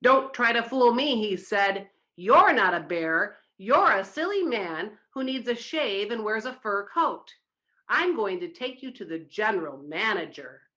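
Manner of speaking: a touch of angry boss; the foreman tells off the bear, mildly annoyed; mildly mad. Acted. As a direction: scold without much heat. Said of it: "He was very mad".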